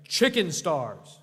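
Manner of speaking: slow, drawn-out chicken stars on request; slow repeat. Shown as a demonstration. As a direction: give it again, slowly. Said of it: "Say it again".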